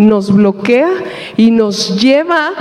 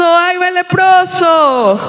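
slow shout, higher, warning "leproso"; calling out; 6 semitones higher, slower than usual. Acted. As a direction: shout it out slowly to clear the way. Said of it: "tenían que estar tapados y estar gritando". (grito lento y agudo de aviso: "¡Ay, va el leproso!")

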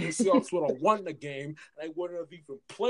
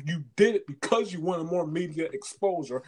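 ordinary talk, nothing marked

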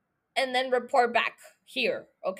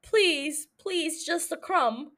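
mock begging; 3 semitones higher, slower than usual. Begging for the actor.

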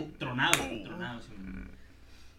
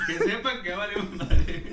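loud, slow laughing declaration; loud laughing punchline; 8 semitones higher, 12 dB louder, slower than usual. Real, not acted. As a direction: spell out the punchline while laughing.

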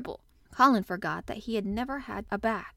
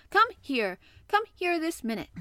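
higher, urgent shouted order; 8 semitones higher, 4 dB louder than usual. A narrator's reading. Angry boy orders his friend to his side, shouting. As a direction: demand it at once, pitch climbing. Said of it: "he shouted at Dickon".

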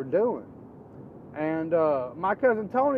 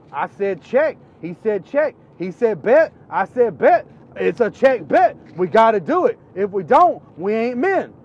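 cousin's insistence; 5 semitones higher, 10 dB louder than usual. Retold or imitated. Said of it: "He goes".

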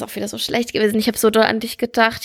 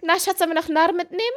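Mutterstimme zum Kind; 7 semitones higher, faster than usual. Retold or imitated. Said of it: "hab ich gesagt".

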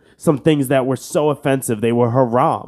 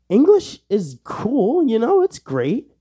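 goofy voice; 10 semitones higher, slower than usual. Acted. Mock dopey voice.

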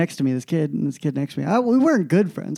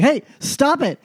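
high-pitched New York teacher reprimand; New York accent; 8 semitones higher than usual. Retold or imitated. Teacher stops students talking in a final, New York accent. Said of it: "she had this crazy New York accent".

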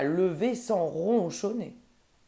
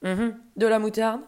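louder question, rising at the end; interested interruption; 3 semitones higher, 5 dB louder than usual. Acted. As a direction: cut in on MOUTARDE with a rising, intrigued lift. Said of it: "interrompit l'ogre, qui adore".

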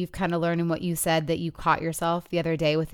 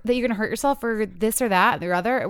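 high, exasperated nagging parent; exasperated parent scolding; 5 semitones higher than usual. Retold or imitated. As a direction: scold the kids as if you can't believe it. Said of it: "it's so easy to be like".

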